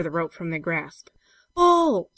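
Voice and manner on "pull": high, loud shouted command; desperate high yell. A narrator's reading. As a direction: shout it out to haul on the rope. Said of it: "shouted George".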